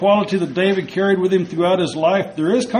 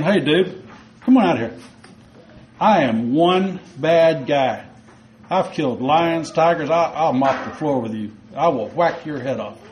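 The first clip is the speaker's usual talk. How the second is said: arrogant boast; 2 semitones lower than usual. Pretend. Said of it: "the arrogance of the I word".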